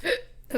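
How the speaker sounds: sudden breathless hiccup gasp. Real, not acted. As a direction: catch a sharp hiccup mid-sentence. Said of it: "I have the hiccups".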